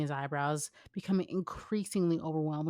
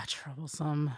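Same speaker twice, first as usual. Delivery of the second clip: weary sigh; slower than usual. Acted. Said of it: "He sighed".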